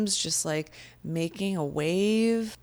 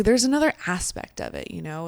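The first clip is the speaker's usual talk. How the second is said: sudden realization; 2 semitones higher, faster than usual. Retold or imitated. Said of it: "I'm like".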